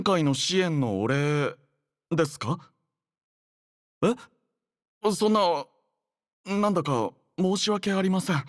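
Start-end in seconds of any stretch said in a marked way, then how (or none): 4.0-8.4 higher-pitched, hesitant and apologetic; taken aback, politely embarrassed by kindness; flustered surprise. Acted. Flustered at an unexpected thank-you gift.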